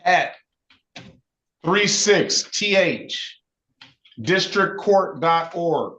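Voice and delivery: slow, letter-by-letter dictation; dictating. Shown as a demonstration. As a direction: spell it out slowly for note-taking. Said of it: "write down your email".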